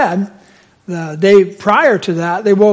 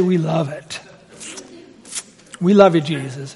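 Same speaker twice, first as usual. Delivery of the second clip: mock sweet-talk; 5 semitones lower, 7 dB quieter than usual. Acting crowd buttering up Jesus.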